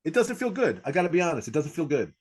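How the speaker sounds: very high, questioning character voice; comedy persona. Shown as a demonstration. Comic persona confessing a failed joke, high-pitched character voice. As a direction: pitch it high as the probing professor. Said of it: "so that's my persona".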